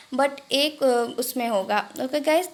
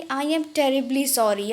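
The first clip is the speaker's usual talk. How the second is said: slow, careful teaching delivery; Hindi: धीरे-धीरे उच्चारण; slow model phrase; much slower than usual. Shown as a demonstration. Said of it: "कैसे बोलेंगे".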